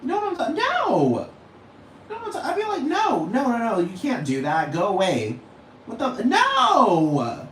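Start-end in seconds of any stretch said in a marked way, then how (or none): 2.8-5.4 disgusted no. Retold or imitated. Disgusted refusal, acted quote. 5.9-7.5 drawn-out high shocked no. Retold or imitated. Rejecting the idea in shock, stretched out slowly. Acted outburst of disgust.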